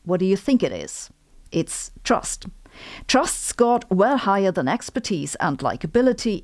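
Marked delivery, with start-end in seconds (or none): 1.5-2.4 whispered. Acted. Dramatic reveal of the answer.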